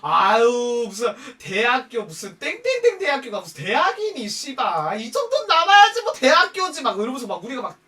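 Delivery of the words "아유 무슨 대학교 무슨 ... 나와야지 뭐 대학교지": high, loud, theatrical put-down; acted-out snobbish mockery; openly dissing. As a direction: scoff for all to hear, rising to a cry. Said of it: "막 대놓고 막 씹었어".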